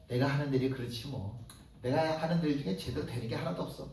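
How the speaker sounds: low, soft self-pitying mumble; a hint of a timid believer giving up; dejected sigh. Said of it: "뭐라고 그러냐면". (풀 죽은 낮은 목소리로 자책하듯)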